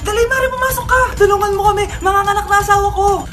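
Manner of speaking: frantic calling. Acted. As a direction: shout for help like a panicked husband. Husband calls neighbor for help.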